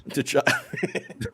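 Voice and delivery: name squeaked way up high; silly falsetto on the name; squeaky high voice. Pretend. Squeaky mock name after plain.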